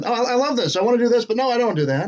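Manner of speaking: halting, breathy actor with a high lilt; Jeff Goldblum impression. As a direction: stammer it out like a quirky movie star. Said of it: "the good Jeff Goldblum impression".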